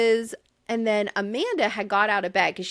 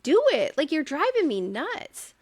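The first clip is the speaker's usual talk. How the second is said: exasperated; 5 semitones higher than usual. Real, not acted. Host telling Amanda to stop pushing him away, exasperated. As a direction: urge her to go, fed up. Exasperated plea to absent woman.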